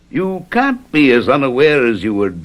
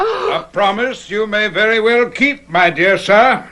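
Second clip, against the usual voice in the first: mocking laugh; 8 semitones higher than usual. Villain mocks the trapped lovers.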